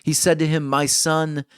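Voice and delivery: measured, solemn reading of scripture. Acted. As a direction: read the verses with weight. Reads Genesis aloud to congregation.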